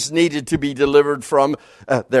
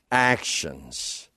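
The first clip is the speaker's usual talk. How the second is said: "Actions." again, much lower and softer, almost under the breath; hushed repeat; 13 semitones lower, 9 dB quieter than usual. Real, not acted. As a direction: let "Actions." sink to a quiet echo.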